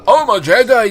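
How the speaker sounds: high, loud pompous boast; hammed-up high boast of a fake Jedi; mock proud claim. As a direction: puff up like a fake hero.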